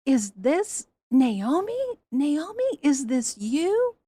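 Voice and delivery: slow, stunned, rising "is this you"; shocked disbelief. Retold or imitated. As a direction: marvel at a long-lost friend. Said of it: "people were so shocked that they're like".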